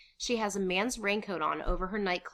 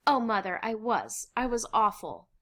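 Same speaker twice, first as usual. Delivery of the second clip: higher, pleading confession; contrite; 4 semitones higher, 5 dB louder than usual. Acted. Anne with arms around her mother, contrite. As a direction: insist on your fault with feeling.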